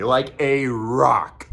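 "like a rock" drawn out very slowly; slow emphatic repeat. Shown as a demonstration. Repeating to viewers how well he slept, slow and drawn out. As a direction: stretch "like a rock" out, savouring it.

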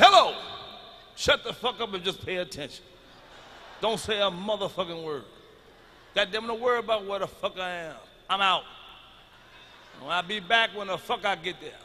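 loud hello, then bossy orders on the phone; mock tough husband. Comic on the phone to his wife, acting tough and bossy. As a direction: lay down the law to the wife. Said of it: "I was mad".

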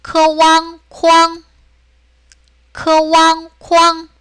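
Mandarin first-tone drill on 크왕, 쾅. Shown as a demonstration. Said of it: "일승 그대로 하니까".

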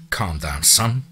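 low, muffled voice. Acted. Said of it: "In a low, muffled voice he spoke".

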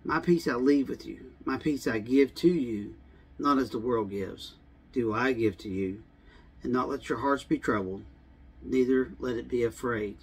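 quiet scripture reading. Shown as a demonstration. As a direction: read it gently like a promise. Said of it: "let me".

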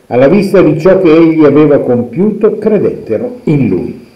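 measured liturgical reading of scripture; Gospel reading. Acted. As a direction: read the Gospel as at Mass, solemn and clear. Reads the Gospel passage aloud.

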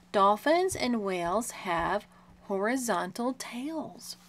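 slow, careful read-aloud; measured picture-book reading; reading to a child. Shown as a demonstration. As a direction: read it out slowly for a young listener.

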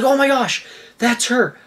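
high-pitched, thrilled retold exclamation; excited realization. Owner on the phone learns mink is found, excited. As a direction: act out recognizing your lost pet.

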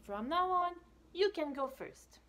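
high generous promise; generous cheetah. Acted. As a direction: offer it kindly. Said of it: "says Little Cheetah".

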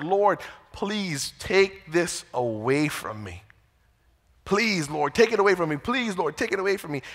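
understated, imploring retold prayer; pleading. Paul pleads with God to take the thorn away, pleading. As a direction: plead gently, drawing out the first request. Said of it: "he pleaded with God three times".

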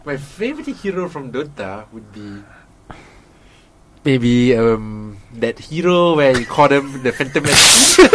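put-on hesitant go at an Indian accent; halting, put-on Indian accent; attempted Indian accent. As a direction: try an Indian accent while searching for words. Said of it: "in an Indian accent".

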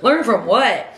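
loud, high-pitched retold disbelief; incredulous retort. Seller answers the old lady's advice, incredulous. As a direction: throw the advice back, acted out indignantly.

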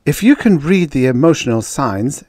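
earnest woman researcher restraining her anger; forced-down anger. A narrator's reading. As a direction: explain while holding the temper back. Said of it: "She forced down the anger".

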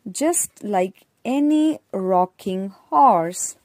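put-on slow, clear poem reading for kids; reading to children. A narrator's reading. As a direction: read the rhyme slowly and plainly for young learners. Reads poem aloud to children.

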